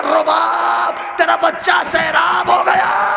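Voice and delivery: high, loud tearful wail to the mother; weeping cry. A narrator's reading. Husain weeping to Rabab, loud tearful cry. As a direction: cry out the news through tears. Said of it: "آخر میں رو کے کہا".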